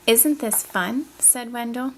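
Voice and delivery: "fun" lifted in a clear questioning rise; voice going up. Shown as a demonstration. Teacher models the question mark for a student, voice going up. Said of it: "Did you hear my voice go up at the question mark?".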